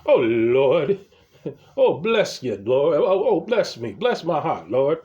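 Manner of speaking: hammed-up adoring church-lady voice; mock worshipful gushing. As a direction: gush over someone like they're holy. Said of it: "they treat him like Jesus Christ".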